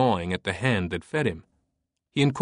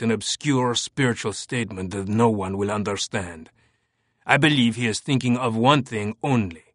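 through clenched teeth, restrained anger; a hint of a French inspector seething; holding back a shout. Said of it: "spoke through clenched teeth".

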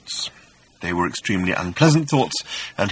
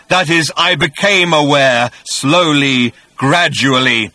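hissing; 5 semitones higher, 7 dB louder, slower than usual. A narrator's reading. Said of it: "hissed the voice".

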